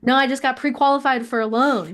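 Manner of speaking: excited whisper, no voice. Real, not acted. Host whispering news while on a phone call. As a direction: hiss the good news under your breath. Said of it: "whispering during a phone call".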